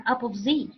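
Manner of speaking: "opposite" as "up-of-zee", in a question; misheard pronunciation. Shown as a demonstration. Teacher asking why it sounds so, misheard pronunciation. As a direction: say "opposite" like "up of Z", without the t. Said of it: "Why would this sound like".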